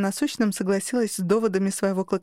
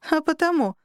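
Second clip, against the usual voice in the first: chuckling; 7 semitones higher than usual. Acted. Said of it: "снова хохотнула Алька".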